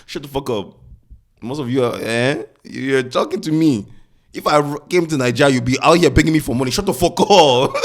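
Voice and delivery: loud, high, fast mock rant; laughing through a heated rant; riled up rant. Real, not acted. Angry mock rant at commenters.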